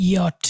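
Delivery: "ইয়ট" starting with a y sound; slow "ইয়ট", yot with a y glide; German letter J. Shown as a demonstration. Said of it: "ইয়ার মতো উচ্চারণ হয়".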